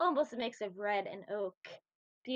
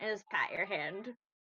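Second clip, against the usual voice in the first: usual speaking voice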